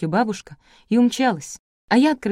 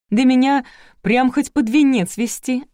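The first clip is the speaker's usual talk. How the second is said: higher, louder, slow admiring exclamation; delighted; 7 semitones higher, 6 dB louder than usual. A narrator's reading. Bride seeing herself in the mirror, delighted. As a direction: savour it with delight. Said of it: "восхитилась женщина".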